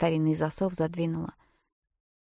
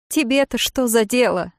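higher, louder tearful reply; sobbing retort; 5 semitones higher, 8 dB louder than usual. Acted. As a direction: snap back through sobs. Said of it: "всхлипнула Бриджит". (всхлипывая, выше и громче)

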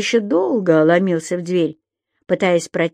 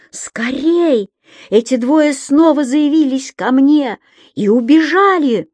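agitated; 6 semitones higher, 4 dB louder than usual. A narrator's reading. Zhabman bursts in shouting.

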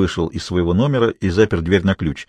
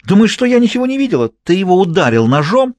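higher, louder furious threats; 6 semitones higher, 3 dB louder than usual. Acted. Furious mistress threatening her lover with what she saw in Monaco. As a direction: threaten to tell everyone. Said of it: "разозлилась Изольда".

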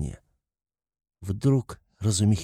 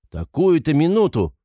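high, loud indignant cry; shouted; 7 semitones higher, 5 dB louder than usual. A narrator's reading. Razumikhin protests at his friend's leaving, shouting. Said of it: "крикнул Разумихин".

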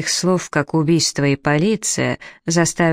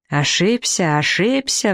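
indignant shout; 4 semitones higher, slower than usual. A narrator's reading. Professor shouting back at the doctor, outraged. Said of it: "вновь закричал учёный".

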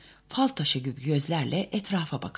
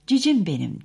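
higher, louder cooing call; chirping; 5 semitones higher, 7 dB louder than usual. A narrator's reading. Daisy chirps lovingly to her little daughter. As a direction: chirp it to the child. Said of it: "diye cıvıldadı Daisy".

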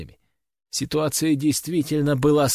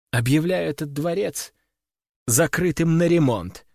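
smirking; 2 semitones higher than usual. Acted. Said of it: "усмехнулась тень".

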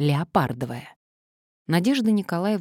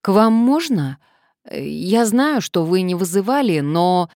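polite enquiry; 4 semitones higher, 6 dB louder than usual. A narrator's reading. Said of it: "вежливо осведомилась".

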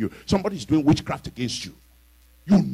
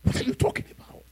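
incredulous; 4 dB quieter than usual. Real, not acted. Incredulous mock.

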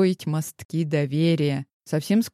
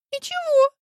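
much higher tiny squeak; a guilty girl squeaking out a word; high, small guilty squeak; 4 dB louder than usual. A narrator's reading. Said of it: "пискнула Диана".

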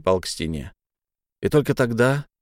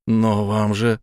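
ordinary delivery

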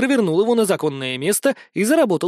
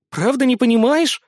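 laughing; 6 semitones higher, 3 dB louder than usual. A narrator's reading. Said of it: "рассмеялась девушка".

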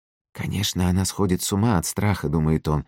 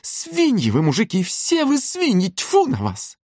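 much higher voice, yelling out the insult. A narrator's reading. Furious mother yelling at her daughter's suitor. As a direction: bawl it at all men. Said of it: "И вдруг снова как заорёт".

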